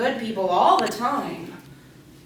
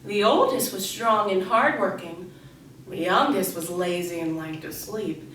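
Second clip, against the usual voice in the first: measured fairy-tale reading; once-upon-a-time storyteller voice; storytelling to children; 2 semitones lower than usual. Acted. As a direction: read a fable to a class of kids. Reads a fable to children.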